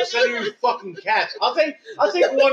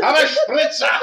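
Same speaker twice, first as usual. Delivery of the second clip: mock shout; 5 semitones higher than usual. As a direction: bark it out, laughing. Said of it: "It should be done in a more angry German accent".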